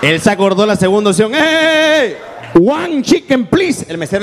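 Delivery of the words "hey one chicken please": calling out order. Acted. Customer calls out his second option.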